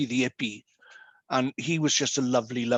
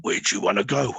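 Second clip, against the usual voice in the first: lower, amused question from the dark; stranger's voice; 6 semitones lower, faster than usual. Retold or imitated. Homeowner teases the blind man on his driveway, lower voice. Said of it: "I'd hear this voice go".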